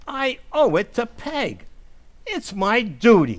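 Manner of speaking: swelling with borrowed courage; resolute declaration. Acted. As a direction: declare it like a sworn oath. Riley working up his resolve.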